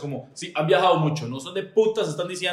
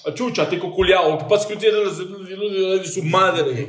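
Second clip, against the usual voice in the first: mock angry Chicho; 4 semitones higher, 3 dB louder than usual. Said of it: "cuando él se enoja".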